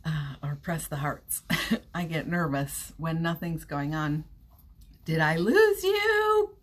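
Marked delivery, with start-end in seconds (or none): 5.0-6.6 high, slow call into the void; louder, drawn-out high check-in. Real, not acted. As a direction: sing it out high and slow, checking anyone's there. Frozen feed, checking viewers still there.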